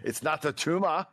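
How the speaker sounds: lightly voiced Arnold, Austrian accent; quoting Arnold's tumor line in a mild Arnold accent; Arnold impression. Shown as a demonstration. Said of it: "So that's just my demonstration".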